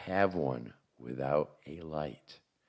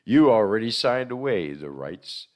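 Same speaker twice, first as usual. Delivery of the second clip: spooky ride narrator; 2 semitones higher, 5 dB louder than usual. Acted. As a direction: ride announcer voice, raised and loud. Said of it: "spooky ride narrator".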